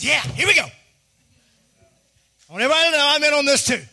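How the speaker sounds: high, loud whoop of enthusiasm; hyped-up, whooping announcement; rousing excited cheer. Acted. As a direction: burst in like an eager supporter. Holy Spirit bursts in cheering.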